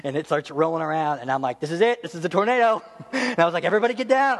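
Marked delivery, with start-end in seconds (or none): 1.6-2.8 lightly hammed-up alarm; a touch of mock panic; mild mock panic. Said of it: "I was, like, all out panic". 3.7-4.4 higher-pitched, hammed-up alarm cry; imitated panicky warning; mock panic. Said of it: "I was, like, all out panic".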